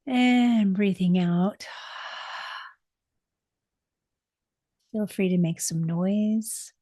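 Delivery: soothing meditation guide, long pauses; unhurried, settling voice with room to breathe; guided meditation. Acted.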